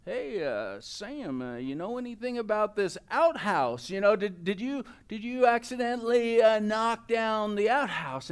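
probing, hesitant questioning; casually fish for a confession; mock-suspicious father, feeling his way; suspicious dad. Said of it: "his dad kind of suspiciously said".

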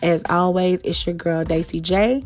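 calm closing blessing; gentle affirmation. Acted. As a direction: reassure your listeners kindly. Soft affirming sign-off.

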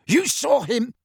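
high, sharp incredulous question; shocked Filch. A narrator's reading. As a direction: whirl round on her in disbelief. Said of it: "Filch rounded on her".

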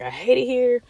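high loud whiny mock voice; whiny mock complaint. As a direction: whine it in a high mocking voice. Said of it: "you be like".

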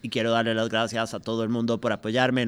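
stiff, monotone robot reading. Retold or imitated. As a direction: deliver it flat like a machine. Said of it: "la madre habla como un robot".

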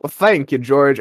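light put-on southern campfire talk; a mild, weird down-home southern accent; imitated southern accent. George and Mary chatting at camp, light mock southern accent. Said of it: "like, southern accent".

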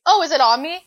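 put-on British accent. Retelling a British tourist noticing the web, in a British accent. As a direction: imitate the British man's accent. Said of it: "in his British accent".

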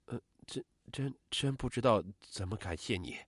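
soft, halting stammer; hesitant, hushed gratitude with false starts; stammering thanks. Acted. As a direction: stumble quietly over the first words, trailing into thanks. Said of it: "磕磕巴巴地说".

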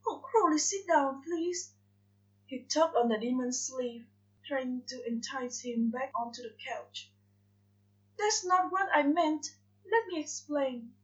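pleading angel. Acted. Aziraphale pleads with Crowley.

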